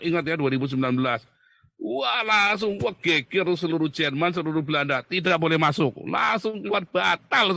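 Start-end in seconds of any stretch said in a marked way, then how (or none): 1.8-7.6 raised, lively retelling of an outcry; retold excited shouting. Telling viewers how the visit got cancelled, excited retold shouting. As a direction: relive the uproar without a full shout. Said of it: "kita langsung teriak".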